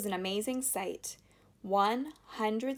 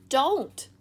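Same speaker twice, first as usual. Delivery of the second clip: loud, sharp, higher warning; urgent cry of alarm; quick warning; 7 semitones higher, 10 dB louder than usual. Acted. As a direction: stop her before she moves. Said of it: "said Mister Wonka quickly".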